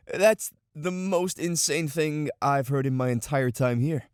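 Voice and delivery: incredulous, leaning on the word "insane"; stress on insane. Acted. Newcomer reacting to a wild claim, emphasis on "insane". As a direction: punch "insane" in disbelief. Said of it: "Emphasis on the word insane".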